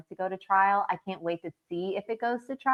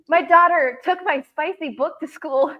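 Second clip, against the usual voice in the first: higher and louder, in a voice unlike her own, horrified; mortified friend; 8 semitones higher, 6 dB louder than usual. Retold or imitated. Friend quoting a mom whose daughter read a spicy book at school, high and horrified. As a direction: play the appalled mom telling the story. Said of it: "And she goes".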